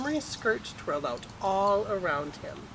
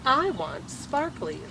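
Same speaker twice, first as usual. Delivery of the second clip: put-on little boy wanting; 6 semitones higher, slower than usual. A narrator's reading. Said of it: "Casey wants the bracelet".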